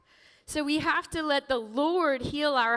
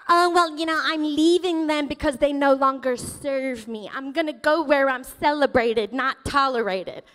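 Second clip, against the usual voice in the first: louder, airy smug therapy-speak; mock self-help voice; 3 dB louder than usual. Pastor mocking Instagram therapy, mock smug voice. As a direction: parody a self-righteous influencer. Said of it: "mocking Instagram therapy quotes".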